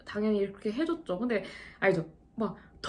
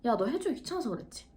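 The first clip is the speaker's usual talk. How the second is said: mock needling customer, softly pitched accusation; retold needling; 3 semitones higher, 4 dB quieter than usual. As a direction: imitate a customer's snide jab, kept soft. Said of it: "계속 이런 식으로 꼽을 주는". (손님 흉내 내며 작게 꼽 주는 말투)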